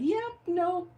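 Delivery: lightly voiced dismissive app, high start; mock Instagram refusal. Instagram refusing to post her reel, mock dismissive. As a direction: breezily turn someone down, imitating an app. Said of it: "and Instagram said".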